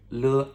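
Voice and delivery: le said with no tone; neutral-tone le. Shown as a demonstration. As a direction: say a toneless Mandarin le. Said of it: "no tone".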